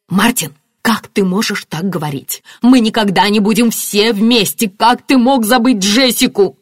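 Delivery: loud, high, outraged protest; crying out. A narrator's reading. Marianna accusing husband of forgetting Jessica, crying out. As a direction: build to an anguished outcry. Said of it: "вскричала Марианна".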